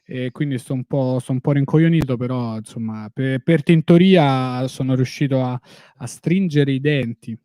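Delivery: groggy after a tooth pulled; after wisdom teeth. Real, not acted. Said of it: "m'hanno tolto un dente del giudizio ieri".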